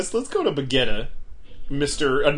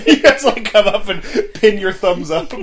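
loud, laughing mock town crier call; 6 semitones higher, 7 dB louder than usual. Calling out to the town square.

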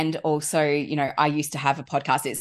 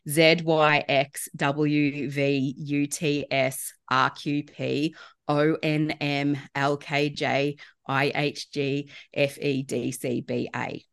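slow, deliberate backwards alphabet; backwards speech; much slower than usual. Shown as a demonstration. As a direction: spell out each letter slowly and clearly. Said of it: "I will repeat it slowly".

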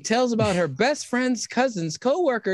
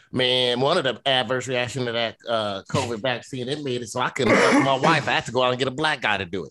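deep fast hick voice; 12 semitones lower, faster than usual. Acted.

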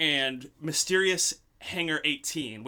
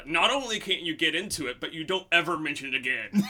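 lightly voiced gruff general, laughing; a hint of a cigar-chomping general; LeMay impression. General shuts down the senator, lightly gruff voice. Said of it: "I'll do my best LeMay impression".

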